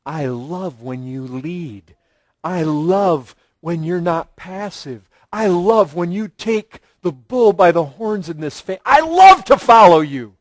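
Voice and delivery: tenderly affirming her husband; a hint of a gentle wife; gentle loving praise. Shown as a demonstration. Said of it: "would come along and say".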